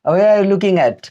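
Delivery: "Where" said slowly as "वेया", no h; careful slow English demo; slow pronunciation demo. Shown as a demonstration. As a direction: stretch out "Where are you looking at" with silent h. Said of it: "इसको वेया पढ़ेंगे".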